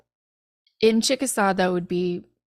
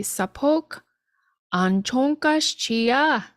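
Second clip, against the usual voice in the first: slow model phrase; 3 semitones higher, slower than usual. Shown as a demonstration. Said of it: "that would just be".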